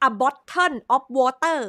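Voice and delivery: "bottle of water" slowly, word by word, crisp T in both; careful pronunciation, first step. Shown as a demonstration. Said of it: "เราก็ควรจะต้องออกเสียงจาก".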